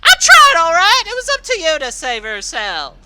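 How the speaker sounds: loud, high, seething screamed rant; furious screaming. Acted. Rainbow Dash screaming back at her former little sister, seething hatred. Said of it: "as she screamed in return".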